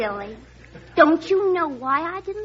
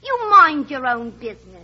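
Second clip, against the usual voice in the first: prim, dignified comeback, a touch louder; ladylike retort; 2 semitones lower, 5 dB louder than usual. Retold or imitated. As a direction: play it prim and proper. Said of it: "real ladylike".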